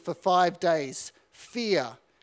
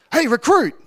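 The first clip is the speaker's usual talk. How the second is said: loud, higher shout across the yard; calling out; 7 semitones higher, 10 dB louder than usual. Retold or imitated. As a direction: call him out from a distance. Corporal calls across parade ground.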